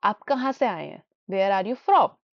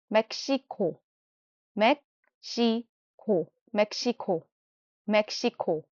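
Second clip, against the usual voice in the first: slow drill; 4 dB quieter, slower than usual. Shown as a demonstration.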